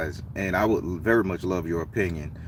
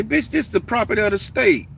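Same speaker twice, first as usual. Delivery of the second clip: higher, retold heated snap; lost his cool; 12 semitones higher, 3 dB louder than usual. The Baron telling the stranger the bench is public, heated. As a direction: lose your cool and tell him off. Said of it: "the Baron done lost all cool".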